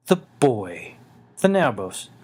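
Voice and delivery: the beast recoils in shock; alarmed ancient wolf lord. Acted. Udlaial's voice, alarmed.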